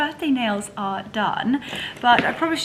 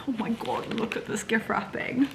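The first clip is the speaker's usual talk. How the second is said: hushed whisper; whispered admiration; 4 dB quieter than usual. Real, not acted. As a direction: say it under your breath. Showing wrapping.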